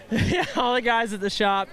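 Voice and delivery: laughing through the words. Real, not acted. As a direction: giggle while thanking. Winner laughing in interview.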